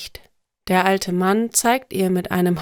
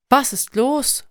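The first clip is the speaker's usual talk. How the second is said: higher-pitched concerned question; worried; 5 semitones higher than usual. A narrator's reading. Mother asks her crying child what is wrong, worriedly. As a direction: ask with mild alarm. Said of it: "frage ich besorgt".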